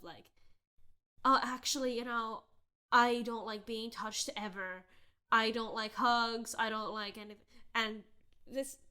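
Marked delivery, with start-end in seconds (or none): 1.2-7.5 putting on a show. Retold or imitated. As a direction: spell it out gently so he takes the hint. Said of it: "putting on this whole show of".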